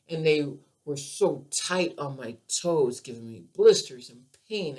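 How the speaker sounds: ordinary delivery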